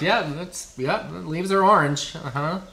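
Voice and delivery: mock unimpressed teen; deadpan, bored "uh-huh"; unimpressed kids humoring dad; bored daughters. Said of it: "part of them's like".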